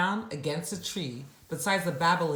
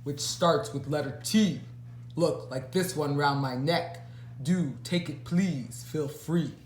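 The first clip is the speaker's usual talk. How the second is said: posh troll voice. Acted. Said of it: "really rather posh".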